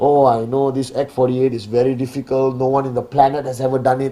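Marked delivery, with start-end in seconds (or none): 0.0-2.6 mopey, gloomy, hopeless-sounding, discouraged tone. Showing how not to say it: depressed, gloomy delivery. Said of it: "Don't say it like a depressed monkey".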